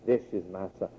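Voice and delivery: low, soft voice of God; voice of the Father. Acted. Preacher repeats the Father's witness to the congregation, low heavenly voice. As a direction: drop deep and quiet for the Father's words. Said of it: "That's what the Father said".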